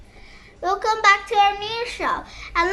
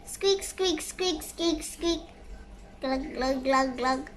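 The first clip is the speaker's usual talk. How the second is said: quiet sound effects; 5 semitones lower, 8 dB quieter, slower than usual. Acted.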